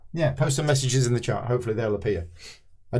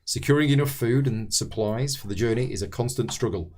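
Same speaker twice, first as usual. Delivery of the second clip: measured scenario read-aloud; story narration. A narrator's reading. Host reading the scenario intro to fellow players, narrating.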